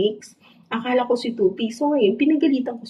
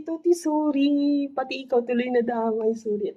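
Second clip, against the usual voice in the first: tender apology; 6 semitones higher than usual. Retold or imitated. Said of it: "sabi ko kay Tuti".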